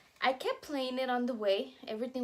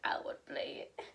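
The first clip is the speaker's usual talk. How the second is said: whispering; 6 dB quieter than usual. Real, not acted. Whispered aside.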